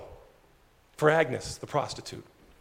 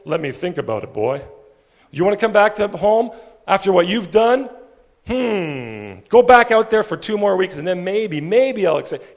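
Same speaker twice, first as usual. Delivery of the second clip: louder, scolding and dismissive; stern grudging father; 7 dB louder than usual. Pretend. Imagined cold father rebuking the returning son, loud and grudging. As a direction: make him earn his way back. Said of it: "It's not like the father saying".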